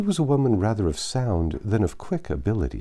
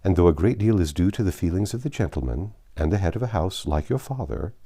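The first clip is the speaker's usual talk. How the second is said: Lady Russell lightly voiced. Lady Russell advises Anne at length.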